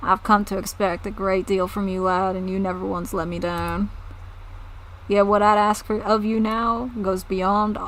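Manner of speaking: lightly voiced southern farmer, earnest; southern accent. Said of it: "I'm just giving them southern accents".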